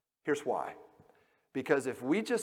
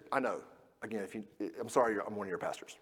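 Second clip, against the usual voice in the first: usual speaking voice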